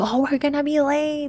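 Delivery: really loud, high, rushed scream. Recounting a morning at home when she started yelling, retelling a really loud yell. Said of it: "really, really loud voice".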